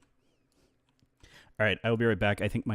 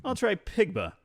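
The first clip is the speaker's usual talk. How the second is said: much higher cartoon pig voice; Pigma voice; 11 semitones higher, slower than usual. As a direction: pitch it up into Pigma. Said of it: "they loved my Pigma".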